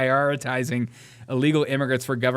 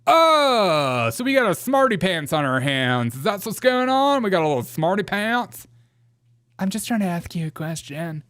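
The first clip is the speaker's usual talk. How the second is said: mock sass; 5 semitones higher, 3 dB louder than usual. Voicing a mocking congresswoman.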